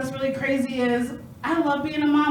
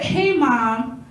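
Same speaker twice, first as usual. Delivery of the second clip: quick hey mom. Retold or imitated. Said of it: "she does that quick".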